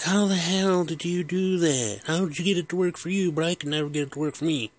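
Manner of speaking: exasperated father; baffled dad. Retold or imitated. Dad baffled horn works.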